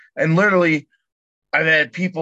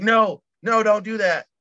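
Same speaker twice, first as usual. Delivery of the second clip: panicked technician; 6 semitones higher than usual. Retold or imitated. Technician pleading with the angry customer, in mock panic. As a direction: beg him not to come over, mock panic. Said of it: "And the dude's like".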